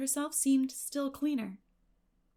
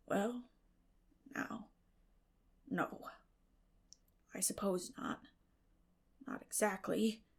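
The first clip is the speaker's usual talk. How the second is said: stammering; 6 dB quieter, slower than usual. Acted. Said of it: "stammered Matthew".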